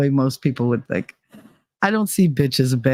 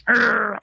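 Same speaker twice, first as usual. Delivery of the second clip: straining grunt; 6 semitones higher than usual. Retold or imitated. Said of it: "he looked like he was pushing one out".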